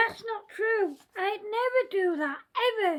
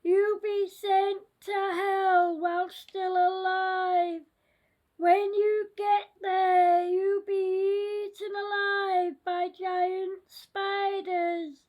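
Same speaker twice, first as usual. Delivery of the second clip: scary voice. Acted. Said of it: "said the scary voice".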